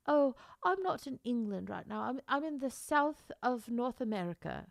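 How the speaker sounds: lightly imitated English accent. Woman telling them she isn't in England, mock English accent. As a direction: put on a hint of an English accent. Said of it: "she has a very English-sounding voice".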